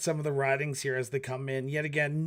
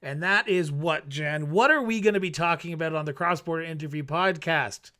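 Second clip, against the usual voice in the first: podcast promo pitch; 3 semitones higher, 5 dB louder than usual. Acted. Show plug pitch.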